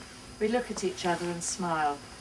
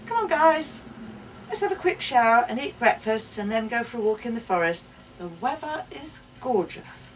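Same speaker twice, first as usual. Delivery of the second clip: cheerful rousing; 4 semitones higher, 4 dB louder than usual. Acted. Mother rousing family.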